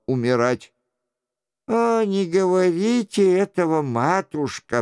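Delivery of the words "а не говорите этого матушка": higher, raised protest to his mother; a touch of a son's outcry; exclaiming. A narrator's reading. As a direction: cry out in mock distress. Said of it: "вскричал Франсуа".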